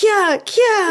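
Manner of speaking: high, sharp mock battle cries; Link noises. Joking about a wordless game hero, high mock battle yelps. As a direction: imitate a game hero's high-pitched attack yelps. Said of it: "sad Link noises, happy Link noises".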